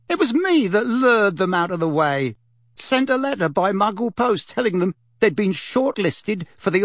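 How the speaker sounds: gleeful boasting witch; young witch. Acted. Young witch boasts of her trick.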